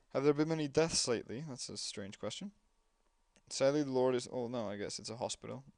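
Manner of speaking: formal dialogue read; reading game dialogue. Acted. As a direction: voice the detective questioning the nun. Reads game dialogue in voices.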